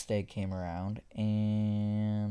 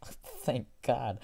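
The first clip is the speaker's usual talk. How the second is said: whispered relief; 2 semitones higher than usual. Retold or imitated. Relief after being let go.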